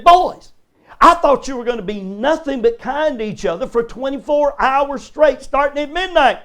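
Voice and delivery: exasperated mother scolding. Retold or imitated. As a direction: play the fed-up mom catching them fighting. Mother scolding fighting boys, retold.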